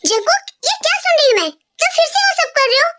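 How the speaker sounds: a mother catching her son out; scolding mom. Acted.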